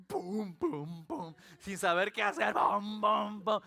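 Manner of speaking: booming vocal knocks on a gate; repeated spoken thumps; imitated banging. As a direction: act out pounding on the door.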